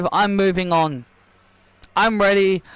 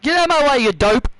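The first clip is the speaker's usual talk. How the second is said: angry threat; 4 semitones higher, much faster than usual. Acted. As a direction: shove her aside with words. Wrestler threatening Becky.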